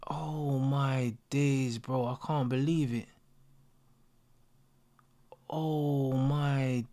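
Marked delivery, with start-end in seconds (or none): 0.1-3.1 whispered disbelief. Real, not acted. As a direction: breathe it out, speechless. Stunned by the match.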